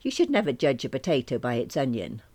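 put-on light Irish accent; mum's mild Irish accent. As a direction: say it with a gentle Irish lilt. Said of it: "saying in an Irish accent".

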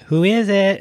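sudden high-pitched mimicked move; imitated quick swoop. Acts out surfer's sneaky move.

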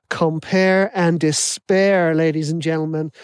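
put-on slow, drawn-out American accent. Podcast host's catchphrase, imitated in an American accent. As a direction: announce it like an American hype host, stretching despair. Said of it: "so I'm gonna put an American accent on".

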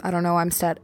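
nervous stammer, words catching; tripping over words from nerves; stuttering. Real, not acted. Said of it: "I, I'm stuttering 'cause you're making me nervous".

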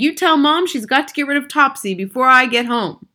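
loud, high, bossy order; boy's shout. A narrator's reading. Mouse boy demanding the cat go, high insistent shout. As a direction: order Dad about at a shout. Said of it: "Bruno shouted from inside".

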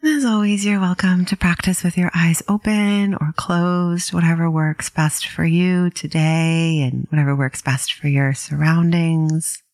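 calm, unhurried meditation guide with long pauses; gently paced mindfulness instruction; guided meditation. Acted. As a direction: ease listeners into settling, leaving space between phrases.

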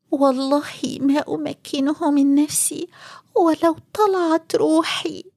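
high whispered inner vow; whispered to herself. Acted. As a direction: whisper it as a private thought. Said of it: "وقالت في قلبها".

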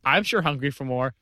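creepy hungry guy. Acted. Improv creepy hungry character.

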